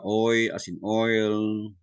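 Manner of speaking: "oi" and "oil" drawn out; slow teaching voice, long "oi" in "oil"; diphthong demonstration. Shown as a demonstration. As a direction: stretch the oy glide in "oi" and "oil". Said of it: "we were introduced to diphthongs".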